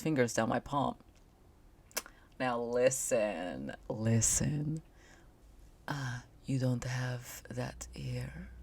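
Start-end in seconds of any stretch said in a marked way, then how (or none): 5.9-8.5 put-on slow, soft Indian-accented purr; hushed sensual Rakesh voice; slow sultry voice. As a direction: speak slowly and kind of sexily. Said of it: "speak slowly and, like, kind of sexily".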